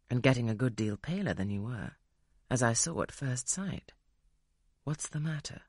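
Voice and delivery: a hint of a gruff gentleman; stern gentleman voice. Rochester questions Jane.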